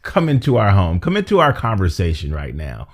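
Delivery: announcer-style host invitation; game show voice. Shown as a demonstration. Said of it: "it's my game show voice".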